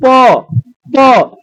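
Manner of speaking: प said slowly, both lips pressed and released; teacher models प with the lips closing; sounding out a letter. Shown as a demonstration. Teacher sounds out प so students feel the lips. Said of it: "तो आप उच्चारण करेंगे जैसे प".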